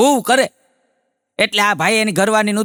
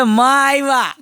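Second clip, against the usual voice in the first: માં આવ્યા higher and brighter, eager; excited announcement; 5 semitones higher, slower than usual. Retold or imitated. Husband tells his wife mother has come, excited. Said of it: "એ કે".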